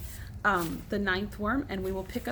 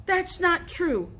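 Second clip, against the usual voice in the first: higher, slow shouting; yelling; 7 semitones higher, 3 dB louder, slower than usual. A narrator's reading. Joe yelling as he runs back dripping, high and loud. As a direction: yell it as you run in. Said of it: "dripping, yelling".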